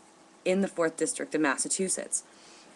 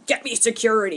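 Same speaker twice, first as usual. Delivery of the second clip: lightly acted movie boss, higher; 4 semitones higher, 3 dB louder, faster than usual. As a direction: snap like a film executive. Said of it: "Now, in the movies".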